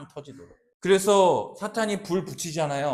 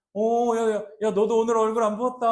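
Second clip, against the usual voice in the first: higher, mock-friendly retort; tit-for-tat jab; 5 semitones higher, 4 dB louder than usual. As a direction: throw the backhanded compliment right back. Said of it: "똑같이 이렇게 막 받아치고".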